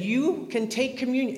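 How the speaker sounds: a hint of a scolding priest; chastising priest. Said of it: "to chastise my mother".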